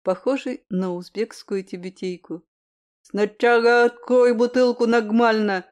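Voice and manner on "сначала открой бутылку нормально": put-on louder drunken bark. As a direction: snap it out at your drinking buddy. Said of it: "рявкнул он".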